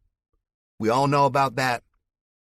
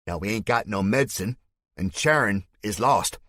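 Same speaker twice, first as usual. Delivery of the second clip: Spike's fake Southern accent; 6 semitones higher, 5 dB louder than usual. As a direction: denounce him to the crowd in a put-on Southern voice. Villain accusing hero before crowd.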